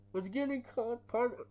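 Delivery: CIA agent voice, botched line. Retold or imitated. Quoting CIA agent, mistaken take.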